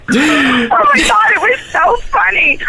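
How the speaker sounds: high, laughing through the words; can barely talk for laughing. Real, not acted. Recalling the love scene with her co-star, laughing hard.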